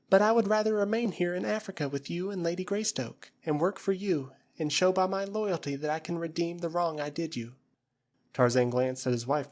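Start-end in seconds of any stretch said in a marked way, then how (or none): 0.1-7.6 put-on high, earnest plea of a grateful girl; pleading young woman. Flora kneeling before the ape-man, high pleading voice.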